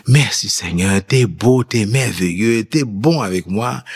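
slow, moved thanks on his knees; grateful prayer. Retold or imitated. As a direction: let the gratitude spill out slowly. Kneeling in prayer, retold.

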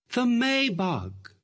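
high, drawn-out triumphant answer; exultant cry. A narrator's reading. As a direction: stretch it out high, falling at the end. Mad girl answers keeper exultantly.

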